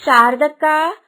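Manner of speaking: loud call with a rising end. Acted. Kusuma calling her neighbour from outside, loud call. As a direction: call over to the neighbour's house.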